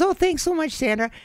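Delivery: mock-sweet high imitation of a friend; quoting Deanne. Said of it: "And she goes".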